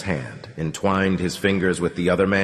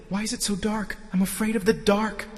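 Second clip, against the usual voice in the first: small, high, soft voice; high, childlike fearful plea; frightened raving; 4 dB quieter, faster than usual. Acted. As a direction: whimper in fear of the dark. Delirious man afraid of dark.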